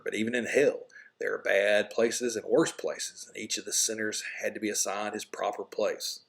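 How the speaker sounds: measured read-aloud storytelling, narrating to students; lightly dramatized story reading; story reading to class. Acted. Teacher reads story aloud.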